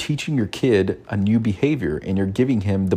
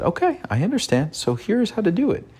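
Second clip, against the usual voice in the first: mock teacher voice; 12 semitones higher than usual. Teaching son polite reply.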